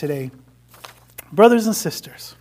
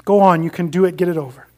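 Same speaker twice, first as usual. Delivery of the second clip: louder bellowed permission; bellowing; 6 dB louder, faster than usual. Acted. Ghost bellowing at the angel to do it, a mild bellow. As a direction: bark the go-ahead at the angel. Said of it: "bellowed the ghost".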